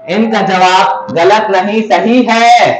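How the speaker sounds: rising pitch, last words stretched out; tease, then proclaim the answer right; suspenseful verdict. Real, not acted. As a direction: build up to a triumphant announcement. Quiz host builds up to verdict.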